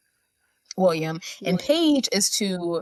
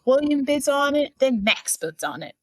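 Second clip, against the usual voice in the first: escalating repetition; 8 semitones higher than usual. Retold or imitated. Host recounts the mounting auction bids, escalating sing-song. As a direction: jump high on "William bids on it", then settle.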